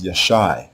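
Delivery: Yashai as yah-SHY; correct pronunciation. Shown as a demonstration. Teacher shows the verb, Yashai said yah-SHY. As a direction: end Yashai on a long I. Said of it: "So we pronounce the verb as".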